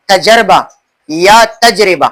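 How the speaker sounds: تجربہ said first as tajurba, then as tajriba; contrasting pronunciations. Shown as a demonstration. Teacher repeating the contrast for students. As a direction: set the two versions of تجربہ side by side. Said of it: "اس کا صحیح تلفظ کیا ہے؟".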